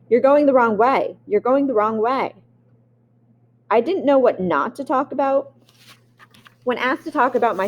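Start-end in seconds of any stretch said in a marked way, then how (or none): 0.1-2.3 lightly raised mock yell of classmates; retold scream. Classmates yelling at him running the wrong way, mild mock shout. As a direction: call out the wrong way, half-hearted.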